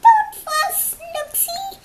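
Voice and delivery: very high, loud squeaky mouse voice. Acted. Mouse comforting the sleepless bear, squeaky high voice. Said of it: "Mouse squeaks".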